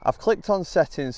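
breathless after running back; out of breath. Real, not acted. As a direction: talk while still catching breath. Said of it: "Sorry if I'm a bit out of breath here".

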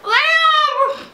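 high mock-tearful cry; whimpering. Fan interrupting the recap for Liam, mock whimpering. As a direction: whimper the name, hammed up. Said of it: "continue to whimper Liam into the camera".

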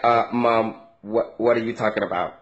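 a lightly voiced kid who does not get his mother's language; confused child. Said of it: "they will look at you like".

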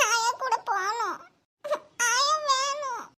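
put-on tearful little girl pleading for grandma; a small girl crying for her granny; crying child. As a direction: whimper it through tears.

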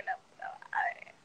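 slow whispered curse. Retold or imitated. The crow circles her, she whispers a curse. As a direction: breathe the curse in fear.

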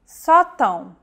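sótão stressed on an open first O, nasal ending; stressed open vowel. Shown as a demonstration. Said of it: "The stressed vowel is marked by an acute accent".

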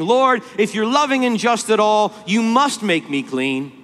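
demanding. Retold or imitated. Leper imagined claiming mercy from Jesus, demanding. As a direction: imitate someone insisting on their due. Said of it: "the Jesus demanding".

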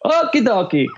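high-pitched, hammed-up Eastern European accent; generic Eastern European accent. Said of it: "a really generic Eastern European accent".

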